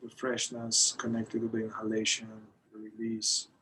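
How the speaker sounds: measured meditation guidance with long pauses; guided meditation. Acted. Teacher leading a group through breath awareness, guided meditation. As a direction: guide them into the breath, unhurried, phrase by phrase.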